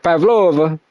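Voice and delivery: a light put-on Russian "Pavlova"; Russian accent. Shown as a demonstration. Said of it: "say it like a Russian person".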